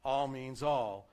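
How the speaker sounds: "all" stressed both times, slow and falling; emphatic. Shown as a demonstration. Pastor driving home the saying to his congregation, emphatic. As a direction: press down on each "all". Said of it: "In other words".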